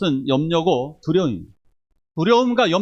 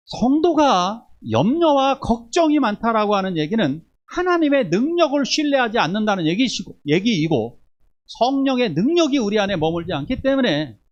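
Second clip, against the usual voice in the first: fervent preaching; 7 semitones higher, 4 dB louder than usual. Acted. Pastor urging the congregation, fervent and emphatic. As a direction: press the point on the congregation.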